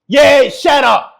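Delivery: drawn-out yell of shut up; slow emphatic shout. Real, not acted. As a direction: stretch it and yell it down at her. Repeats louder, dragged out.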